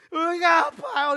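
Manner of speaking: put-on high, loud, slow whining child; whiny child. Fallen child whining to a parent, high, loud and slow. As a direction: wail it like a hurt toddler. Child after fall complains.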